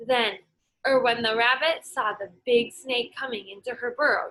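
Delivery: lively storybook read-aloud for a class; teacher reading a folk tale aloud; story reading to children. Acted. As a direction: read it like story time, voicing every animal. Reads picture book to class.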